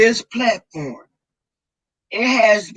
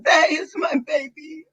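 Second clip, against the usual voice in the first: choked up, half laughing through tears; tearful laugh as she tries to get the words out; 5 semitones higher than usual. Real, not acted. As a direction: voice catching with real emotion. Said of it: "I don't wanna be emotional".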